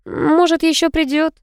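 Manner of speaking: high, hopeful plaintive question; mild pleading hope; a touch of plaintive wishing. A narrator's reading. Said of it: "жалобно вопросила я".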